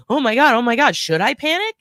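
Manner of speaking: gasped-in mock panic, lifted and loud. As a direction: act out a mother starting to panic. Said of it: "And now they're both panicking".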